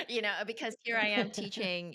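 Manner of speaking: amused at yourself, still laughing; real laughter. Real, not acted. Laughing at the odd situation.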